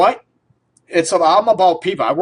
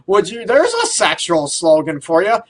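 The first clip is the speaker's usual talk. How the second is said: laughing. Real, not acted. Laughing through the line.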